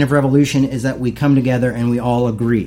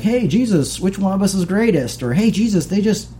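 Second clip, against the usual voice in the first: higher-pitched mock pleading; imitating pestering disciples; 5 semitones higher than usual. Disciples pestering Jesus with petty requests, mock eager. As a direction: pester him in a raised mock voice.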